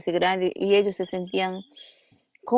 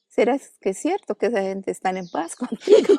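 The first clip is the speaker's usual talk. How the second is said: laughing; 3 semitones higher, 4 dB louder than usual. Real, not acted. Husband's doubtful question, laughing.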